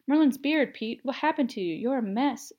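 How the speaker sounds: high, loud start, shocked exclamation; exclaiming. A narrator's reading. Sirius shocked at Peter's state, exclaiming. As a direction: burst out in alarmed surprise. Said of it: "Sirius exclaimed".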